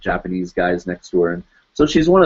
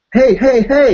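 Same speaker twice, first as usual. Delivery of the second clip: high, loud mock call for attention; sharply raised, repeated hey; 7 dB louder, slower than usual. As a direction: imitate an upset woman hailing someone. Woman freaking out over spilled beer.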